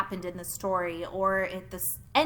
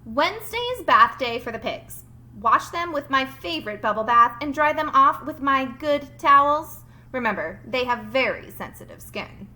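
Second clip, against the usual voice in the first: loud, bossy note reading; 2 semitones higher, 7 dB louder than usual. Acted. Teacher voicing Duck's fake note about pig baths. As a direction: read the demands out loud with gusto.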